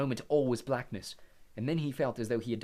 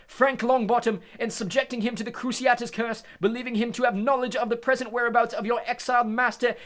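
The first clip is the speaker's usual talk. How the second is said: stern judge voice, much louder; 12 semitones higher, 9 dB louder than usual. Acted. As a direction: pronounce the charge coldly. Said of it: "said Crouch".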